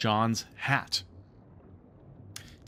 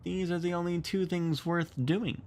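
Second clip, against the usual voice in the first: a hint of a grumbling boy; growled; 8 semitones higher than usual. A narrator's reading. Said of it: "growled John".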